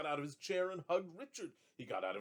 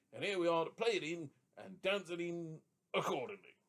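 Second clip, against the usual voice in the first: put-on drunk drummer; 5 semitones higher, 6 dB louder than usual. A narrator's reading. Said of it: "The drum was rather drunk".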